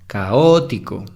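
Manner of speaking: "Caótico" as CAotico, weight on "ca"; stress on the first syllable. Shown as a demonstration. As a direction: open "Caótico" hard on "ca". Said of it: "la primera K sería caótico". (acento en la primera sílaba)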